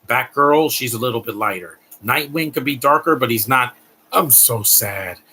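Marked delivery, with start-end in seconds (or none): 4.1-5.2 slow, mopey mock lament; lightly put-on emo moping, drawn out; mock gloomy. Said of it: "Being dark and gloomy".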